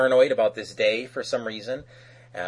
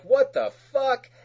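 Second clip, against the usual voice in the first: shocked Titans; 12 semitones higher, 3 dB louder, slower than usual. Retold or imitated. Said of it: "So they're all like".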